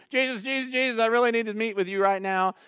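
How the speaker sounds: high, loud desperate calling out; desperate cry. Acted. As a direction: cry out over the crowd to be heard. Blind man cries out to Jesus.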